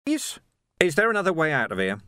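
high, hurried stammered question; frightened little clerk. A narrator's reading. Clerk looking at the ruler asks for escape, high and nervous. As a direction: stumble on the first word, then rush it.

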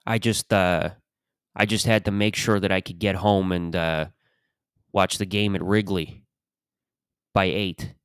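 lightly voiced Chicago old-timer; old Chicago detective accent. Old detective admitting he wanted the ballgame, Chicago accent. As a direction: talk like a retired Chicago cop. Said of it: "It's just the same guy".

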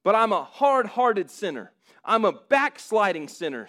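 the sinner insisting he is unworthy; pleading sinner. Acted. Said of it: "dialogue between a person".

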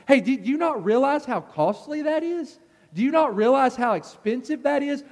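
a bystander scolding the woman for wasting costly ointment, indignantly; indignant protest. Retold or imitated. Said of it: "They were angry whenever this woman did this".

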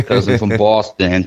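put-on slow quoted line in a light Boston accent; quoting the beer ad in a hint of Boston; a touch of a Boston accent. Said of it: "that Samuel Adams commercial".

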